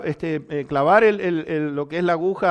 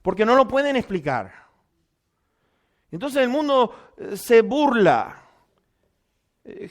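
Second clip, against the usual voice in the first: raised preaching voice on scripture. Acted. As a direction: preach it to the congregation.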